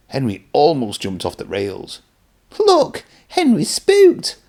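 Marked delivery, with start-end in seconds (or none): 2.6-4.4 much higher, slow jeering truck voice; rude truck. Acted. Trucks mocking jumpy Henry, high jeering truck voice. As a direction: jeer like a nasty little truck. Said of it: "laughed a truck rudely".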